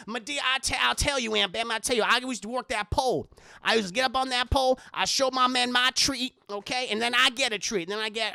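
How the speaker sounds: lightly voiced sassy old Madea; a hint of a brassy grandma holding court. Madea bragging to Aunt Bam about her past, lightly voiced. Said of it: "it's the voice".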